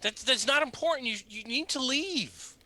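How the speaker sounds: high, stammering urgency; nervous old man insisting; pleading father. Acted. NPC father refusing adventurers.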